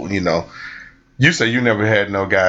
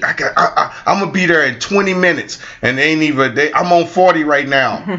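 higher, rushed fake excuse; late partner's excuse; 4 semitones higher than usual. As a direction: play the flaky partner, high and rushed.

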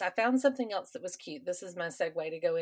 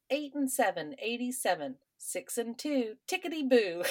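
bingo caller; 4 semitones higher than usual. Retold or imitated. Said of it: "Kate calls up the next one saying".

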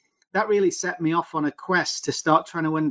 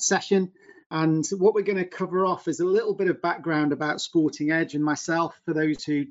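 webinar audio with poor sound; poor quality webinar recording; low quality stream. Real, not acted. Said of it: "Apologies for the sound quality not being quite as good as normal".

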